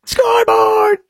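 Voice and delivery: high mock shout of Scoreboard!; sarcastic gloat. Host bitterly mocks the slogan after war news, high sarcastic shout. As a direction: crow it bitterly like a smug fan.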